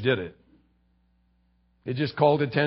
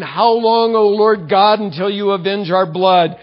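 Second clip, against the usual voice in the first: higher, louder pleading cry; 4 semitones higher, 5 dB louder than usual. Retold or imitated. Martyrs crying to God for justice, loud pleading. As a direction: martyrs before the throne calling out to God. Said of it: "they're crying out and saying".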